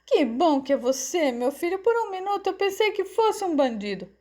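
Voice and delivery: high, glad mother's voice; relieved joy. A narrator's reading. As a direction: pour out relief at seeing your son. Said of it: "alegrou-se Ivone".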